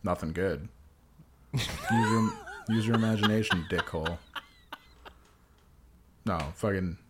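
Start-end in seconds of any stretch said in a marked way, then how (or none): 1.5-4.2 laughing retort. Acted.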